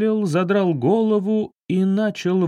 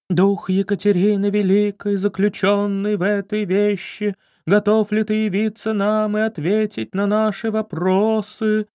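higher, eerie drawn-out summoning; ominous drawl; 6 semitones higher than usual. Acted. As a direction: drag the words out like a sinister medium. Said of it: "Зловеще протянула женщина". (зловеще протяжно, как медиум)

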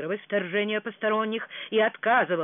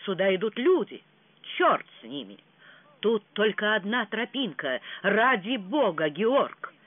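hushed urgency, a bit louder; a worried warning to hurry; alarmed; 3 semitones higher, 4 dB louder than usual. Acted. Frederick urges his brother to leave before people arrive, alarmed. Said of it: "встревоженный голос Фредерика".

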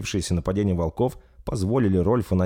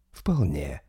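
curt vampire; 4 semitones lower than usual. Acted. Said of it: "коротко произнёс маэстро".

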